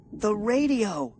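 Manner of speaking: loud, high sudden idea; excited cry. A narrator's reading. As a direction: call out with hope. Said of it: "I cried".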